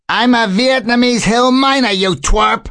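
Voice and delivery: very high, indignant bird voice; offended mynah bird. A narrator's reading. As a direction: protest high-pitched like an insulted mynah.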